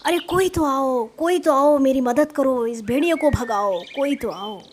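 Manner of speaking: pleading cries for help, fading at the end; storyteller's urgent mock yell; acted desperate shouting. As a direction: call out loudly to anyone who might come. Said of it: "चरवाहा लगातार चिल्ला रहा था".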